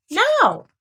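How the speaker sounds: high, loud command to pull; called command. Acted. Christopher Robin signalling everyone to pull, loud call. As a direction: call the team to heave.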